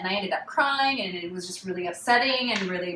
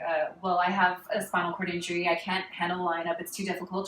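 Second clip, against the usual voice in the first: understated self-justifying reply; explaining herself; 2 semitones lower, 5 dB quieter than usual. Retold or imitated. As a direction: explain yourself quietly, a little hesitant. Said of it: "Trying to explain myself".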